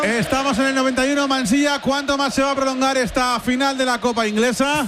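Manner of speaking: energetic match commentary; live football play-by-play. Real, not acted. Commentator asking Mansilla how long the final will last, live play-by-play. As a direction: keep the live call driving.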